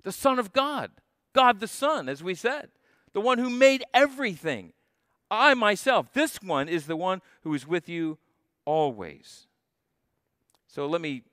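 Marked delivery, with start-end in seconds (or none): 5.3-6.1 "I" pitched higher and louder, falling; stress on I myself. Shown as a demonstration. Preacher driving home who is speaking, emphatic high stress. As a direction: lift and punch the "I" in "I myself". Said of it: "But the emphasis is".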